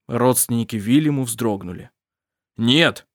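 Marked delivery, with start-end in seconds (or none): 2.6-3.1 a sharp, louder "Нет!"; cry of no. A narrator's reading. Father refusing the pirate captain, crying out. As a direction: throw the word out as a protest. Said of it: "крикнул Калиб".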